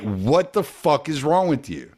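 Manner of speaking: retold yell at yourself, held back; mock self-yelling. Man yelling at himself mid-task, mild mock yell. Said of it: "I'm yelling at myself".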